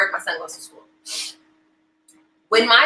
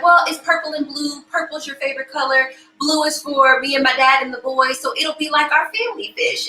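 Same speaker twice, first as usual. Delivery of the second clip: lightly voiced little boy, pitched higher; higher retold kid voice; young son; 5 semitones higher than usual. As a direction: imitate a child explaining his choice. Young son voiced explaining choice.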